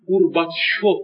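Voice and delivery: گورباچوف broken up as "gurbat-sho"; ch turned to t-sh. Shown as a demonstration. Lecturer showing the Arabic rendering, ch turned to t-sh. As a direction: split the ch of گورباچوف into t plus sh.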